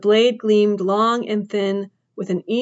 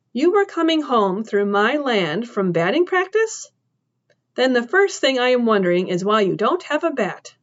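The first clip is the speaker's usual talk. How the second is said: lightly voiced woman, pitched up in disbelief; a hint of a tough farm woman cross-examining; woman questioning the trespasser, incredulous; suspicious woman; 2 semitones higher than usual.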